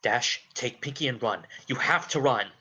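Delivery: loud, urgent warning; urgent shout. Acted. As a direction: urge them to flee.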